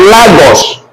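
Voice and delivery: Lagos as "LAH-gos"; Spanish A. Shown as a demonstration. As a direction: give Lagos an open "ah". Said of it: "A in Spanish is A".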